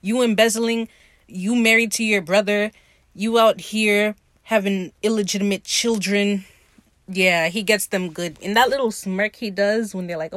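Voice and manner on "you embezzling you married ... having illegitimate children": emphatic mock call-out, item by item; imitated scathing read. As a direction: read them for filth, punching each charge. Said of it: "he reads them to Phil".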